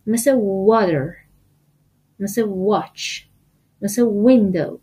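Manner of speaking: "water", "watch", "window" opened on a full rounded w; rounded-lip W. Shown as a demonstration. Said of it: "باید لباتون رو گرد کنه".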